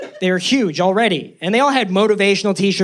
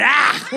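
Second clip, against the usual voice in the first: 1 pained yelp; 8 semitones higher than usual. Retold or imitated. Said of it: "And I went".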